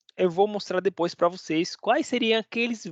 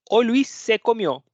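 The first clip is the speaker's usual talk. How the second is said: the wrong version lifted higher and louder; wrong example; 4 semitones higher, 4 dB louder than usual. Shown as a demonstration. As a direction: show the odd version with a lift. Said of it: "a gente não fala desse jeito". (exemplo errado, mais alto)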